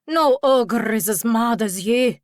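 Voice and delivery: lightly voiced cheeky pixie; squeaky pixie. A narrator's reading. Pixie insulting the intruder, lightly squeaky. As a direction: taunt with a hint of pixie squeak. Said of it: "the pixie squeaked".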